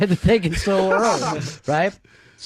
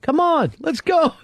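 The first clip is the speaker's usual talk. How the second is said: high-pitched mock calling out; imitated urging; 11 semitones higher than usual. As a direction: call like impatient people stuck behind someone. Retold crowd urging him on.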